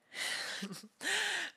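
high-pitched laugh; uneasy laugh. Acted. Jealous captor brushing off a suspicion, high laugh.

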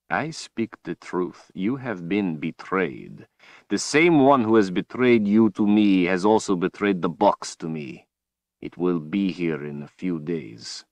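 a cold, gloating overlord; menacing villain. Acted. Villain Rahl speaks.

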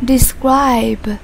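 "Describe" with the stress on "scribe"; second-syllable stress. Shown as a demonstration. Teacher models "Describe" for eighth graders, stressing its second syllable. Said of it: "Nhấn âm tiết số hai".

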